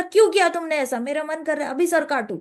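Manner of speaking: mock royal indignation; retold anger. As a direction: lightly act out an angry demand. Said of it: "ऐसे करके पृथु महाराज ने गुस्सा करा था".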